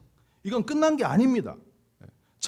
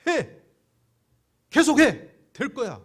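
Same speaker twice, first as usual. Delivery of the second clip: mock command; 4 semitones higher, 6 dB louder, slower than usual. Mimicking religion's demand to keep trying.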